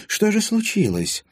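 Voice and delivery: high, slow eager question; old lady hungry for the story. A narrator's reading. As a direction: lean in for gossip.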